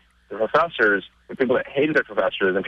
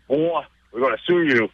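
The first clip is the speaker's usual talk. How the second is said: stereotypical smug lawyer; 3 semitones higher than usual. Retold or imitated. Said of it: "very stereotypical trophy, you know, lawyers".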